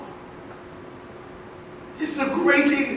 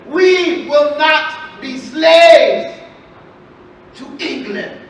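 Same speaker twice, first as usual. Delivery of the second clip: slow, louder, grand speech-maker; orator's proclamation; 5 dB louder, slower than usual. Acted. Master Henry proclaiming to the tavern crowd, slow and grand. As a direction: declaim it like a patriot orator. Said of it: "he stood and he said".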